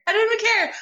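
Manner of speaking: high, loud, laughing repeat. Real, not acted. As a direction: laugh it out, giddy.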